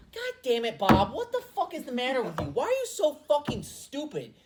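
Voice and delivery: mock angry yelling at Bob; Lions brass yelling. Lions executives berating Bob for the pick, in a mock yell. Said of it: "they're probably sitting there like".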